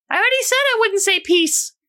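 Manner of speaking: put-on very high little-kid voice; innocently curious, squeaky child; Tiffany. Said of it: "Tiffany's just looking at you like".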